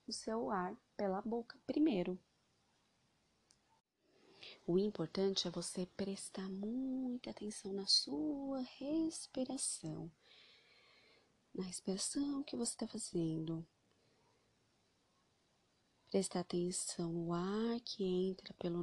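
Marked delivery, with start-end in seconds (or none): 4.7-13.6 whispered guidance. Acted. Meditation guide whispering instructions.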